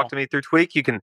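high, hurried, defensive homeowner; hostile recluse. Acted. Homeowner refuses to see the visitors, defensive.

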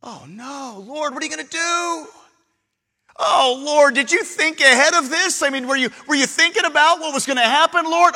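worried Jonah. Acted. Jonah pleading while thrown overboard.

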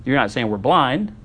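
mildly incredulous, sarcastic questioning; understated mock disbelief. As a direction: act out a touch of affronted sarcasm, rising on "blind". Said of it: "you can hear the sarcasm".

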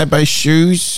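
put-on slow high-pitched airhead girl; airhead woman. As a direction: drag it out like a vapid beauty. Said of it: "they're like".

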